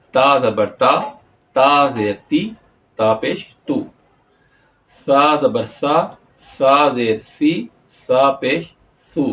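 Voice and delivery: تا زبر تا and سا زبر سا recited slowly; drill recitation. Shown as a demonstration. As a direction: chant the letter drill steadily. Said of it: "اسی طرح ہے". (قاعدہ کی مشق سنانا)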